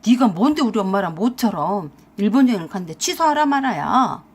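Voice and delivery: mildly angry husband's outburst; indignant retort, a touch heated; sudden anger. Acted. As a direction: flare up at being told what to do. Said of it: "버럭 화를 내면서 그랬어요".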